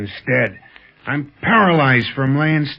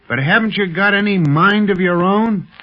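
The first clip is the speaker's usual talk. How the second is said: angry taunt; 5 semitones higher than usual. Acted. Strapped-down prisoner taunting Quan Wu, angry and scornful. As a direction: needle him hard, getting heated.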